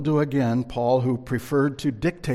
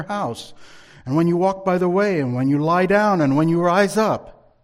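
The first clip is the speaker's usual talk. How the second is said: a hint of a booming Charlton Heston, louder; 3 semitones higher, 6 dB louder than usual. Preacher reading scripture to the congregation in a mild movie-prophet voice. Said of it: "in my best Charlton Heston voice".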